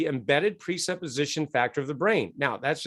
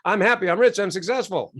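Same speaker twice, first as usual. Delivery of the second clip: mock cheery affirmation; 4 semitones higher, 4 dB louder than usual. Mock old-style affirmations.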